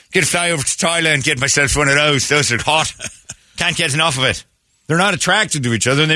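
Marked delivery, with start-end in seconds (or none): 0.1-4.4 mock eager Irishman. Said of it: "Ireland's not sitting there going".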